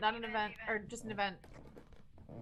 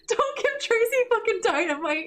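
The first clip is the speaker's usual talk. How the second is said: laughing; 4 semitones higher than usual. Real, not acted. Laughing at teammate.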